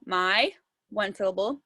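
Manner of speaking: low, rising at the end of MY; counting syllables. Shown as a demonstration. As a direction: say MY as one separate counted beat. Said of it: "let me count how many times my chin goes down".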